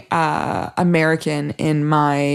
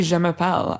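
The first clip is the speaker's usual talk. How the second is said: put-on American French accent; 4 dB quieter than usual. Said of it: "I didn't even say".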